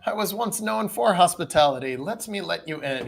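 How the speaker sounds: lightly voiced apologetic old man. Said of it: "a very old man".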